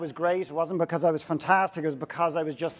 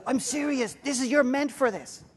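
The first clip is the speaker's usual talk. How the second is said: earnest plea; 8 semitones higher than usual. Retold or imitated. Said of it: "And he goes".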